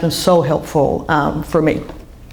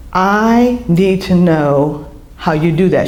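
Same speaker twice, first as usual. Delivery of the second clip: earnest retold plea; slower than usual. Tearful stranger's earnest plea retold.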